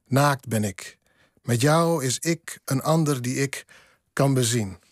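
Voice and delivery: measured poem reading with pauses between phrases; poetry recital. Acted. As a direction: recite your poem line by line, deliberately phrased. Recites own poem in Dutch.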